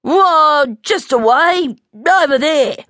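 put-on high, childlike airy answer; breezy young adventurer; airy little bear. A narrator's reading. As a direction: toss it off in a high cub voice. Little bear vaguely boasting of escape.

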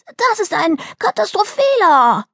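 put-on high-pitched outraged child's complaint; indignant. Girl objecting to a week of house arrest, indignant. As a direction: protest it as a grave injustice. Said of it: "beschwerte Delhi sich empört".

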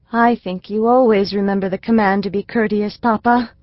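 a hint of a sweet little girl admiring her teacher; little girl Elsie. Elsie to her father, a lightly voiced earnest little girl.

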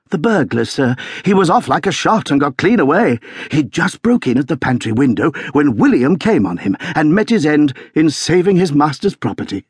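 high-pitched, agitated report; excited servant reporting to his master; shaken butler. A narrator's reading. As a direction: blurt out the awful news. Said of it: "propriety shaken out of him".

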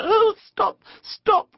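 very high, loud squeals of delight; ecstatic cry. A narrator's reading. Mole hears the picnic list, ecstatic. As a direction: beg for mercy, overjoyed. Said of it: "cried the Mole in ecstasies".

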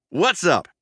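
high mouse squeak; squeaky greeting. A narrator's reading. Prankster needles his busy cousin, high squeak. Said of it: "he squeaked".

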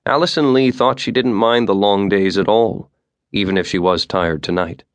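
ordinary delivery, nothing marked

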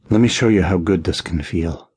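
a husky, hungry murmur; husky with need. Acted. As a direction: let the need roughen the voice a little. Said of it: "my voice husky with need".

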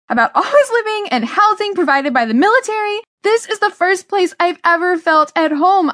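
high-pitched, impassioned outburst; angry yelling. Acted. Teenager protesting being uprooted to parents, yelling angrily. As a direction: let the grievance burst out, pitch way up. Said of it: "I was yelling".

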